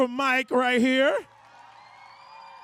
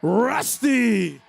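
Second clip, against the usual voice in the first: growl; 2 semitones lower than usual. Shown as a demonstration. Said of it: "we're gonna growl when we say your name".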